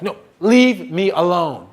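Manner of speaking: slow, drawn-out mock refusal; exasperated refusal. Woman refusing his hot chocolate, slowly exasperated. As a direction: stretch out the brush-off.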